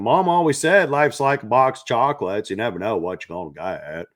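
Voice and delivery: hammed-up Southern movie-quote voice; playful fake American South accent. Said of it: "That's my Southern fake accent".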